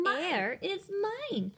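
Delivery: screamed. Acted. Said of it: "screamed Lydia".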